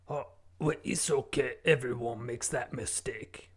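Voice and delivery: put-on guest in a bogus French accent; fake French accent. Guest answering the host, in a fake French accent. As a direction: lay on a made-up French accent. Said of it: "What is that accent that you're doing?".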